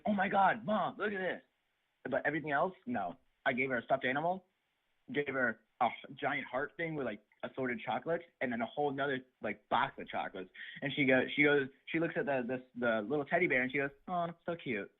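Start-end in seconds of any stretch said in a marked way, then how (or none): 0.1-1.4 imitating an excited girl, high-pitched; high-pitched squeal to mom, as retold; retold excitement. Acts out girl's delight at toy. 14.1-14.9 imitating her unimpressed "aw"; mock polite, uninterested reply; retold emotionless reaction. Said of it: "No, no emotion in her voice".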